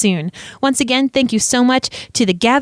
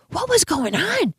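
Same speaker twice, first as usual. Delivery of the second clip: higher-pitched voice, retelling her amazement; high-pitched babysitter impression; imitating the babysitter; 9 semitones higher than usual. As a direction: quote the babysitter in a raised, incredulous voice. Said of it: "she said".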